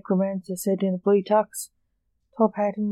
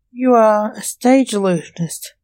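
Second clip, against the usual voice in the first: louder, mildly puzzled statement; confused; 3 semitones higher, 7 dB louder than usual. A narrator's reading. John sizes up Blake as an illusionist, mildly confused. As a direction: say it as if working it out, a touch confused.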